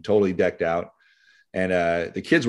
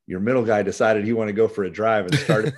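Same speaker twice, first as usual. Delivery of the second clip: retold line, broken by laughter; laughing while retelling. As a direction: laugh through the words as you tell it. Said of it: "he's laughing his butt off".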